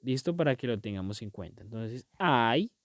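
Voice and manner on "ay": "ay" stretched slowly with a rising tune; drawn-out ay. Shown as a demonstration. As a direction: hold "ay" long, lifting at the end. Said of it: "este es el único que varía".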